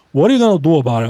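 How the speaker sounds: hammed-up playground bully; mock tough guy. Mock tough taunt at viewers.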